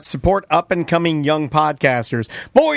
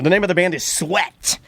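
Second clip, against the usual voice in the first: radio DJ voice; 2 semitones lower than usual. Acted. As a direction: lay it on like late-night radio. Mock radio DJ outro.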